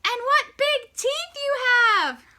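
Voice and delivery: put-on girl starting to panic; growing alarm; alarmed wonder.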